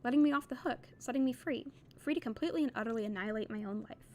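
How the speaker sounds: steady, measured reading of a novel; story narration. A narrator's reading. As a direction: read the passage like an audiobook narrator. Reads novel aloud on stream.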